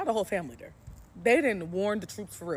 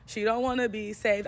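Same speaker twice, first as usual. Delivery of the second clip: high pleading whine, mock panic; a friend begging them to stop beating her pimp in a high mock panic; pleading girlfriend; 6 semitones higher, 3 dB louder than usual. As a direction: squeal like a panicked girl begging her man. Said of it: "talking about".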